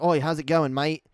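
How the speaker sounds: loud, cheery Aussie greeting; mock Aussie, punched out loud; Aussie accent. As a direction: imitate a broad Aussie hello. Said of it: "fall into a lot of Aussie habits".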